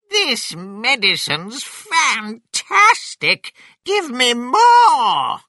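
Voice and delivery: high, slow, greedy demand; drawn-out high yell; exultant Grandma. A narrator's reading. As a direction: crow it loudly as a thrilled Grandma. Revived Grandma exclaims in story.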